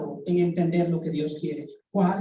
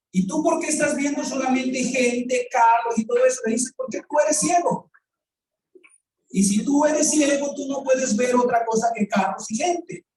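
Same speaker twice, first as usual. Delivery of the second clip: raised, emphatic preacher calling him blind; rebuking preacher; 5 semitones higher than usual. Retold or imitated. Preacher telling the reporter he is blind, raised and emphatic. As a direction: press the point that he is blind.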